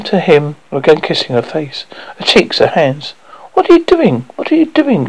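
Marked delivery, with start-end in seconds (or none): 3.5-5.1 high, horrified cry; cry of horror. Acted. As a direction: cry it out in horror, much higher. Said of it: "she cried in horror".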